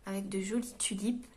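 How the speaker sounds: soft unvoiced whisper; quiet whispered remark. Real, not acted. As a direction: breathe it as a hushed aside. Whispered aside about bookmark.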